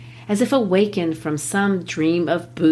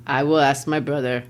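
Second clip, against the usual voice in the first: put-on "I will ask my brother" with a German accent, "will" stressed; German-accented shoemaker deferring to his brother; broken German English; 3 semitones lower than usual. Teacher as Gessler in a German accent. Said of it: "I'll practice my broken German English".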